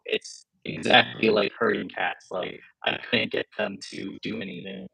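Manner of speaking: glitchy robotic call audio. Real, not acted. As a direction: sound like a garbled robot. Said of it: "I think you have a robot voice".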